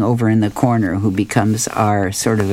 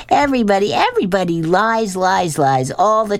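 much higher, unhinged cry, slowing on the last lies; high manic proclamation; hysterical outburst; 9 semitones higher than usual. Acted. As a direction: let it spiral up into mad glee. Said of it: "He starts laughing hysterically".

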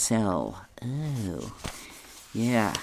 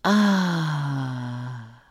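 falling leaf cry; 3 semitones higher than usual. Retold or imitated. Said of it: "it's saying as it goes".

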